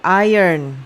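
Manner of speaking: "iron" said "AI-yern"; pronunciation as respelt. Shown as a demonstration. Teacher spelling out the sound for pupils, "iron" as "AI-yern". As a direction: say "iron" as if written "ayern". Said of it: "kalau kita tuliskan kayak".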